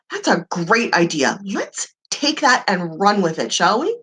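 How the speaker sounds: confident voice. Shown as a demonstration. Coach mimics empowered agreement, low confident voice. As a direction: take charge of the idea. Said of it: "I'm using funny voices".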